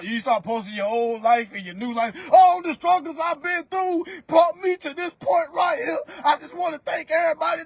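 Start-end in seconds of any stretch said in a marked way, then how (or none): 2.3-7.6 mock gratitude speech. Mocking a new-tenant gratitude post.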